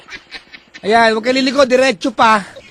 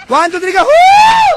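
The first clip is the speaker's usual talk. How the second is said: high countdown then a loud whoop; rally the listeners to yell; hyped whoop; countdown cheer; 7 dB louder, slower than usual. Real, not acted. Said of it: "Isa pa!".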